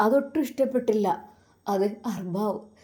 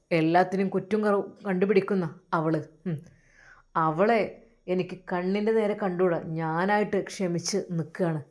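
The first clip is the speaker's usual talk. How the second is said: lower employer voice; 5 semitones lower than usual. Acted. Employer coaxing the housemaid Raziya, low and smooth. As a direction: speak down to her as the boss.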